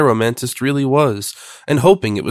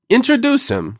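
high incredulous question; astonished cry; 10 semitones higher than usual. A narrator's reading. Duchess reacting to being offered an introduction, astonished cry. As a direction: cry it out in disbelief, pitch leaping. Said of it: "cried the Duchess".

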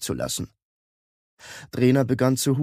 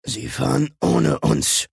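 agitated cry, slower, slightly raised; excited call; 3 semitones higher, slower than usual. A narrator's reading. Like calls to the others about the departing ship, excited. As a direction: call it out in mild alarm. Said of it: "rief Like aufgeregt".

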